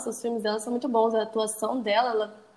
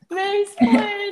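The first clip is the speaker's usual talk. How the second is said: mock drawn-out echo; 8 semitones higher, 4 dB louder, much slower than usual. Echoing the word in mock.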